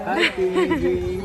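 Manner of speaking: high, slow drawn-out hi piggy; sing-song greeting. Shown as a demonstration. Teaching the child to greet the pig, high sing-song. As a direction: stretch "Hi" way up and slow. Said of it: "Say, "Piggy".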